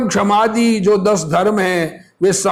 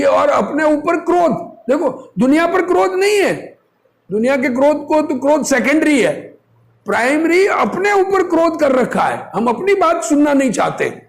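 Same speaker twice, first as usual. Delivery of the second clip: fervent preaching; 5 semitones higher than usual. Real, not acted. Preacher stressing anger at self.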